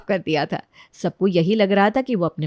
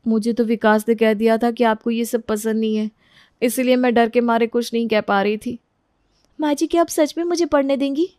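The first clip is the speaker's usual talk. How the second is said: timid daughter-in-law, hopeful; 3 semitones higher than usual. Acted. Daughter-in-law asks mother-in-law to let her study, meek and hopeful. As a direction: ask hopefully, a little shy.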